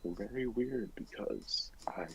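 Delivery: hushed confiding whisper. Real, not acted. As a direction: drop to a secret whisper. Gossip about who had covid.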